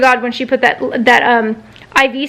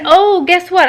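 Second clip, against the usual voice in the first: higher, mock-surprised retort; sarcastic; 6 semitones higher than usual. Patient arguing with nurse on the phone, sarcastic. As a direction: toss it out as a sarcastic reveal.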